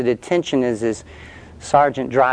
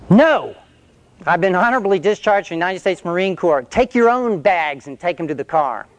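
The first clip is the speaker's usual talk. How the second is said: defiant refusal; 5 semitones higher than usual. Retold or imitated. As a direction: stand up to the old sergeant. He defies the sergeant.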